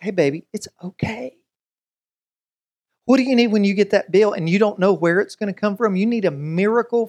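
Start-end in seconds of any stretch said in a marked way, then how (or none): 0.0-1.4 softly spoken reassurance; gentle comfort. Acted. God comforting one who lost a loved one, gentle reassurance. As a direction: soothe someone grieving, keeping it soft. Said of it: "you need the peace of God".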